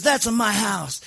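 high-pitched mock Sicilian accent; Sicilian mob boss. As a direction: show off like a hammed-up Sicilian don. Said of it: "Sicilian mob boss once".

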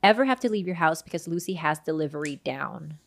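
smooth, even podcast ad read. Acted. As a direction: read the sponsor copy clearly.

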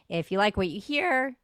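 a sudden crack in the voice. Real, not acted. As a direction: voice cracks mid-sentence. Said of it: "not my cracking voice".

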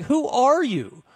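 high, slow, drawn-out disbelief; incredulous retort. Retold or imitated. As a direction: throw it back at him, stunned and high-pitched. Retort to buddy in retold argument.

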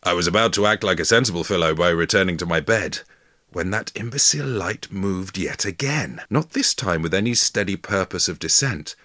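lightly voiced Victorian gentleman; stagey period drama. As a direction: read it grandly like an old diary. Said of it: "It's the voice as well".

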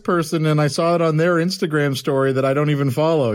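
mock jealous accusation. Mocking a jealous stalker's accusation.

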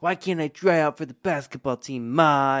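lightly voiced pleading kid; a hint of a kid begging mom; whiny kid voice. Kid voiced in retold movie.

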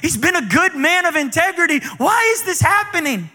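anguished cry. Retold or imitated.

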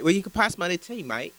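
casual at-home Cockney; relaxed mock-Cockney table talk; Cockney accent. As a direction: chat like an off-duty Cockney crook. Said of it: "That's an accent".

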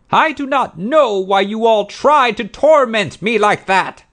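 high, loud furious shrieks; outraged woman shrieking at intruders; enraged screaming. A narrator's reading. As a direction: let the anger loose and scream them away. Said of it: "she screamed".

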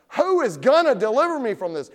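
loud, high plea for rescue; exasperated cry. Acted. Sinner after the fifteenth failure, crying out desperately. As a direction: shout it out in despair. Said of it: "after you've sinned for the fifteenth time".

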